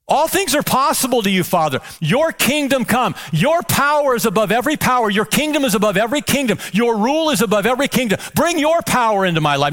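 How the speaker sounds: fervent praying voice, lifted and strong; fervent prayer. Acted. Pastor prays Jesus' words fervently.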